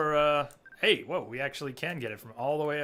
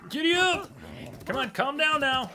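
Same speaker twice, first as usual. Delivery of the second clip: coaxing a wild horse; 10 semitones higher than usual. Real, not acted. Soothing a bucking wild horse.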